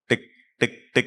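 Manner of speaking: three short ticks, spaced apart; imitated watch ticks. Shown as a demonstration. Teacher recapping the faint sounds children heard, imitated ticking. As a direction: tick like a tiny watch.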